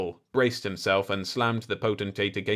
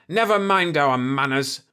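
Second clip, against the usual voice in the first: sudden raised outburst, louder; blurted out; 6 semitones higher, 6 dB louder than usual. A narrator's reading. Georges breaks in on the potentate, blurting loudly. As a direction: blurt it out over the others. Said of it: "Georges blurted".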